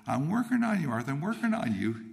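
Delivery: high, lilting quoted voice; lightly voiced singsong call from on high; God. God keeps telling young Arthur He is working, singsong. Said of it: "And God says".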